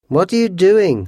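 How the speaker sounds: high, loud, alarmed question; terrified cry. A narrator's reading. Housekeeper catches Washington scrubbing the stain, crying out terrified. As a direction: cry out in horror. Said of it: "she cried".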